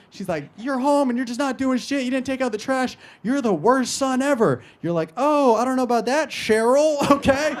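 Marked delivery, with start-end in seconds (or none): 0.5-4.6 high-pitched maternal scolding; mock angry mom. Mom scolding son about the trash, mock angry. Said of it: "Your mom's ever getting mad at you". 5.2-7.6 high, loud sarcastic comeback; mock defiant retort. Son arguing back at his mom, mock defiant.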